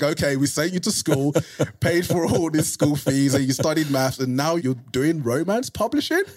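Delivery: imitating exasperated family. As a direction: act out the family's disbelief, pitch climbing. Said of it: "my family really lost their minds".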